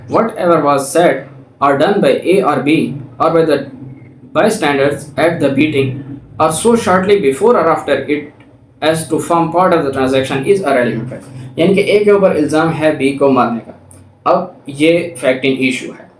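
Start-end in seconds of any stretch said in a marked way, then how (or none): 0.1-11.6 reading the law out slowly, word by word; slow, deliberate legal reading; slow statute reading. Shown as a demonstration. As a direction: dictate the section clearly to students. Reads illustration text aloud.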